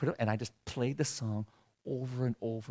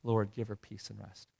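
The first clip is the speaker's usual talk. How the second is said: soft murmured prayer of peace; whispered prayer; 8 dB quieter than usual. Retold or imitated. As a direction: whisper it into her ear. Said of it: "I would just pray those words".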